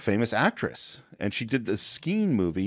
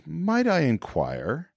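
lightly voiced Gestapo officer, very slow and a touch higher; slow, formal officer; 6 semitones higher, much slower than usual. Gestapo officer politely questions the group, very slow. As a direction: draw out each word with polite menace. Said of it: "And he says".

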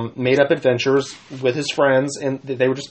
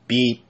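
robot beep. Acted. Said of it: "I sounded like a dying robot".

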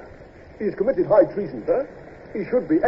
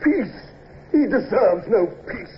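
indignant; 4 semitones higher than usual. Acted. Captain indignantly rejects mercy.

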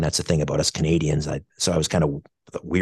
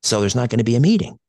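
put-on Tennessean accent; 6 semitones higher, 4 dB louder than usual. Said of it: "in his wonderful Tennessean accent".

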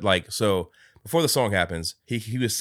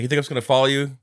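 mock defiant yell; 6 semitones higher, 7 dB louder, faster than usual. Scrooge retold defiantly.

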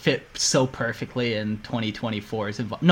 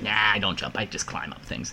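lazy mumble; 6 semitones lower, 8 dB quieter than usual. Pretend. Lazy hero refusing to jump.

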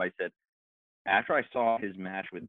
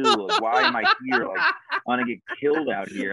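higher, laughing through mock dread; laughing panic; 4 semitones higher, 4 dB louder than usual. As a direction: giggle while pretending to fear for your life. Retold panic before the punch.

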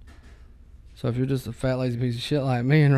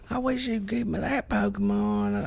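put-on much higher, slower whiny kid; mock daughter voice; 9 semitones higher than usual. Dad doing his mocking daughter voice on request, high and whiny. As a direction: beg like a spoiled child. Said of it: "Do the talk".

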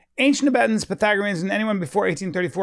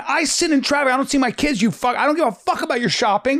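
raised, higher voice of a fed-up driver; mock angry commuter; 5 semitones higher than usual. Fed-up commuters yelling at council about lanes, mock angry. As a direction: rant like a stuck commuter.

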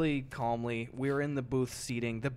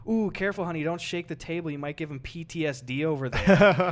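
sarcastic jab; 2 semitones higher, 6 dB louder than usual. Retold or imitated. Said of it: "I was like".

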